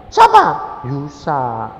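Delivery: loud high surprised husband; incredulous husband. Retold or imitated. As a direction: demand who said it. Husband questioning.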